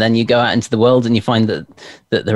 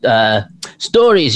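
swooping, higher-pitched mock Billy Connolly Scottish; badly faked Scottish burr, pitch leaping about; terrible Scottish accent; 5 semitones higher than usual. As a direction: do a bad, hammed-up Scottish accent. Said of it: "that's a terrible accent".

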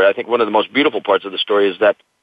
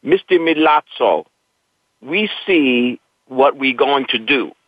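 put-on Italian accent; 3 semitones higher, slower than usual. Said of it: "he had a thick Italian accent".

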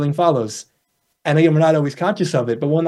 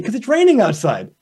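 a bit higher, brighter and pleased; cheerfully happy; 4 semitones higher than usual. Retold or imitated. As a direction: say it like the rain is a gift. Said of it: "they look really happy".

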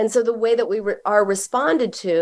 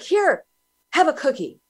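mom offering cookie; 7 semitones higher than usual. Retold or imitated. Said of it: "mom's like".

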